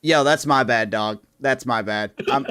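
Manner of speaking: R-Truth apology. Retold or imitated. R-Truth apologizing to Paul Heyman, loud casual shrug. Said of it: "R-Truth goes".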